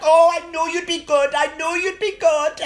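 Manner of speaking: put-on high delighted Black London accent. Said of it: "That's my black accent".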